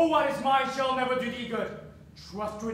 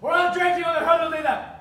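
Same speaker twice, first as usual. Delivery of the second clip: enraged threat; 5 semitones higher, 5 dB louder, faster than usual. Acted. Father threatens daughter.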